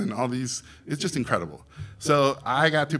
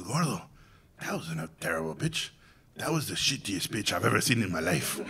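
deadpan verdict; 3 semitones lower, 6 dB quieter than usual. Retold or imitated. Guillermo delivering harsh verdict.

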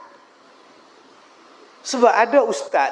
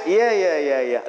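eager yes; 2 semitones lower than usual. Retold or imitated. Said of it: "Lain pula jawapan dia".

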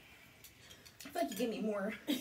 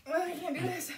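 snotty crying; 5 semitones higher than usual. Real, not acted. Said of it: "I started, like, crying".

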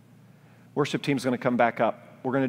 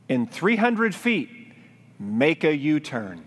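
a slow, lightly robotic sat-nav voice, pitched up; GPS voice; 4 semitones higher, slower than usual. Retold or imitated. Dad imitating Google Maps telling him, slow navigation voice. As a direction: mimic the car navigation announcing each word. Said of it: "what the voice from Google Maps says".

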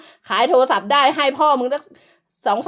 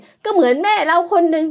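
mocking imitation; 4 semitones higher, 4 dB louder than usual. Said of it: "มันพูดถึงแม่ไอ้เป๋".

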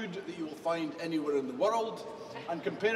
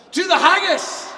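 raised toast, called out; group toast; 9 semitones higher, 11 dB louder than usual. Real, not acted. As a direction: lead the toast loudly. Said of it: "we're gonna say a toast together".

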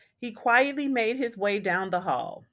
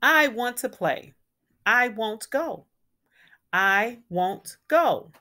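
put-on louder, stubborn child's refusal; grouchy; 3 semitones higher, 4 dB louder than usual. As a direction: dig in your heels like a grouchy kid. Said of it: "He was grouchy".

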